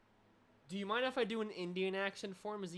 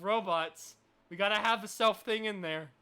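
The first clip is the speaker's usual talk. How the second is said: emphatic; 3 semitones higher, 10 dB louder than usual. Real, not acted. Arguing for self-voicing feature.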